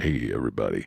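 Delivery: talking very close to the microphone. Showing a new habit of talking close to the microphone: talking close to the microphone. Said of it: "talking to the, close to the microphone thing".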